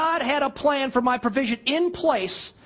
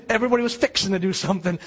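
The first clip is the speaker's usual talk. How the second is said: Southern drawl; 2 semitones lower, much faster than usual. Shown as a demonstration. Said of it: "That's the word down there".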